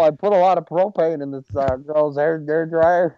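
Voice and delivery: lightly put-on southern accent. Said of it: "He turned southern for a second".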